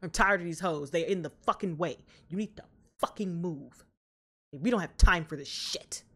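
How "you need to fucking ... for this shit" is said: urgent unvoiced whisper. Real, not acted. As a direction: hiss it urgently under your breath. Urgent aside at screen.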